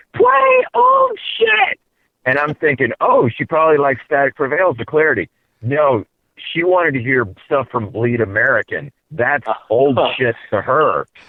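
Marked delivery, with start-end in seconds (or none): 0.2-1.8 acted very high, sloppy, drunken yelling. Retelling what a really drunk girl nearby kept yelling, imitating a drunk girl yelling. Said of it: "she kept yelling".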